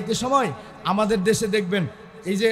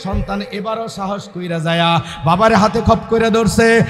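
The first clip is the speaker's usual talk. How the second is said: ordinary delivery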